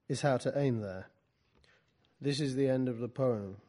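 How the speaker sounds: measured storytelling with separated questions; literary reading. Acted. Poet reads from the book to a class, literary reading. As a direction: read your own prose to an audience.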